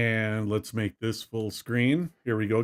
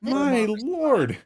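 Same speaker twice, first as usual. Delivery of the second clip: laughing; 10 semitones higher than usual. Real, not acted. Still laughing at the mishap.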